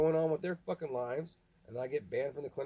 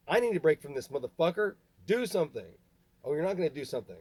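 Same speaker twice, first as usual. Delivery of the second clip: much louder, furious snap back; angry outburst; 3 semitones higher, 6 dB louder than usual. Real, not acted. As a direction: shout it in real rage. Exploding back at dad.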